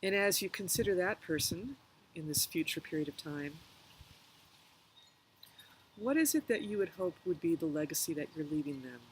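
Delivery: calm meditation guide, pausing between phrases; unhurried guided reflection with long pauses. Real, not acted. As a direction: gently lead listeners through a reflection, leaving room to breathe.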